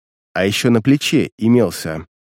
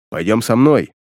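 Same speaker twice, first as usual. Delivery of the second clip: deep bass; 3 semitones lower than usual. Acted. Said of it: "а затем нежданно пробасил".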